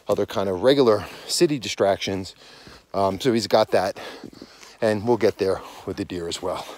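breathless walking at altitude; out of breath. Real, not acted. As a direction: talk while winded from hiking. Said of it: "sorry I'm out of breath too".

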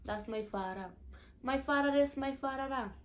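Saint Thomas island lilt; Virgin Islands accent. Shown as a demonstration. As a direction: speak like a Saint Thomas local. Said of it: "my accent".

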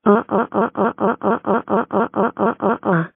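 evenly repeated fake wails, fairly soft; mechanical, half-hearted bawling in short bursts; mock tantrum wail. Child left out of the Funland trip, mock tantrum wailing. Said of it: "stop it with your temper tantrums".

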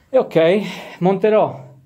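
breathless after carrying gear; out of breath, talking between breaths. Real, not acted. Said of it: "scusate il fiatone". (col fiatone)

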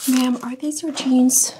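slow, loud stern demand; stern loud question. Acted. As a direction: bark the question slowly. Guard questions the jeans.

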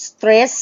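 "stress" with its closing S held audibly; final S sounded. Shown as a demonstration. Teacher modelling a word that ends in S, "stress" with the final S sounded. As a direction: finish "stress" on a distinct sss. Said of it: "มันลงด้วยตัว S".

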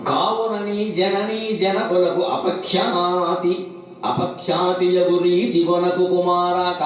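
slow, measured chanting of a verse; verse recitation. Acted. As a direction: recite the poem slowly, weighing each word. Recites a Kumara Satakam verse. (నెమ్మదిగా పద్య పఠనం)

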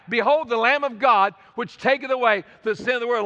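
lightly voiced shouted announcement; mild retold shout. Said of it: "he starts coming and shouting out".

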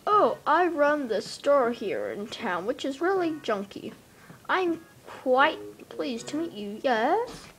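slow mocking shopkeeper; hammy greedy raccoon; Tom Nook voice.

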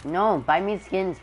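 high, loud, slow pleading; begging whine. Real, not acted. Begging dad for skins.

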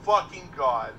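scared horror game streamer. Real, not acted. Relief after chase.

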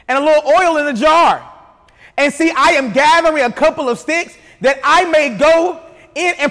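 projected, emphatic Bible reading; scripture reading. A narrator's reading. Preacher reads the widow's answer to Elijah, scripture reading. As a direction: read the widow's reply out to the room.

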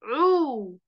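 عو said as throaty ain plus rounded u; a teacher sounding out عو; ain with damma. Shown as a demonstration. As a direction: model عو with rounded lips. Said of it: "صوته عامل إزاي؟".

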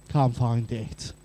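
slow, bored mumble of a half-hearted search; lazy, can't-be-bothered voice. Retold or imitated. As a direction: shrug it off like you barely looked. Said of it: "the look is so half-hearted".

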